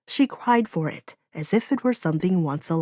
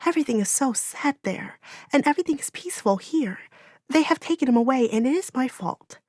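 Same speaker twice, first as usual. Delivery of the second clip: put-on higher, guilt-stricken young voice; grieving girl; 6 semitones higher than usual. A narrator's reading. Gabriella confessing to Orin that it is her fault, grieving. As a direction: confess the fault, near tears.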